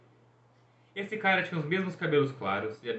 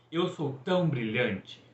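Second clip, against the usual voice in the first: slow, savoured self-praise line; proud verse recital; slower than usual. A narrator's reading. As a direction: recite it slowly, pleased with yourself. Apollo recites his new haiku line. (recitando devagar, todo satisfeito)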